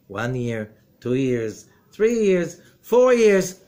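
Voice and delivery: building count. Acted. Counting the years upward.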